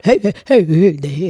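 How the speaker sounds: excited. Acted. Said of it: "I get excited".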